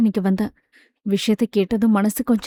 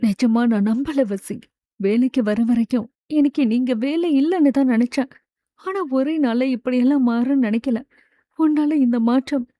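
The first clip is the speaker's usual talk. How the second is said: teary apology. Acted. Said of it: "கண்களில் நீருடன்".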